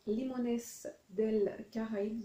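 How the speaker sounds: slow, careful attempt at Spanish for "Limones del Caraïbe"; self-conscious amateur Spanish accent, spelled out slowly. Shown as a demonstration. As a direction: read the Spanish label slowly in a clumsy Spanish accent. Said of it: "vous excuserez mon accent, euh, espagnol".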